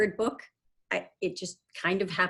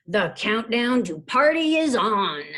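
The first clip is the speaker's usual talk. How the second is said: lightly acted, louder radio-host call; booming announcer; 3 semitones higher, 5 dB louder than usual. Radio host kicking off the countdown, mildly booming. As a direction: announce it big, with a touch of boom. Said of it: "It seems to boom through the studio".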